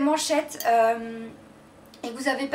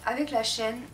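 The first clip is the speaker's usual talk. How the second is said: lisp; much slower than usual. Real, not acted. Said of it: "j'ai l'impression que je zozote".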